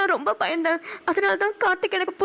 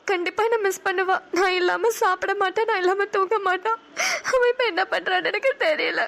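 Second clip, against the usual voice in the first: crying. Acted. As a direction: let the tears break into each line. Mother missing her child, weeping.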